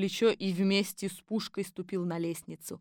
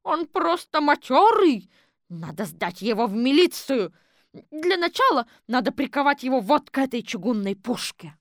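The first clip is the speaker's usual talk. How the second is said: much higher, louder ironic voice; mock the strange exhibit; sporty citizen woman; 5 semitones higher, 7 dB louder than usual. Четверухина решает сдать жулика. (насмешливо, высоким громким голосом)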